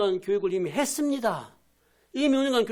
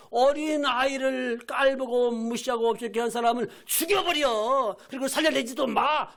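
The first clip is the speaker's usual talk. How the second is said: angry command; 3 semitones higher than usual. Acted. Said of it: "또 화를 내시기를".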